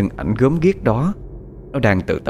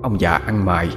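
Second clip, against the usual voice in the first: gloomy ghost voice. Acted. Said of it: "cất tiếng nói âm u".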